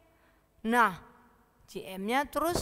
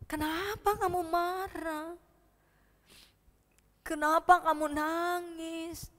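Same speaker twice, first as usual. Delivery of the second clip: tender; 3 semitones higher, 4 dB quieter than usual. Acted. Grandma gently questions crying Boy.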